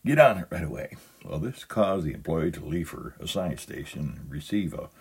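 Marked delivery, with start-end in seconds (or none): 0.0-1.0 imitating an official store announcement. Prankster husband to an employee, official voice. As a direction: put on an official voice, firmer at the end. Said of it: "told her in an official voice".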